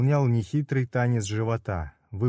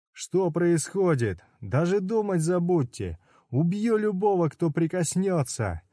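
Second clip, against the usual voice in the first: high frantic threat; 7 semitones higher than usual. Acted. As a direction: warn them off in panic. Udo threatening the natives.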